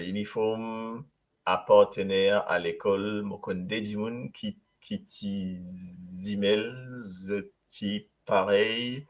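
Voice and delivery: lis lentement et doucement, mot à mot; détache chaque mot comme une dictée; lecture lente. Shown as a demonstration. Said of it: "un petit récap". (lecture lente et posée, à voix basse)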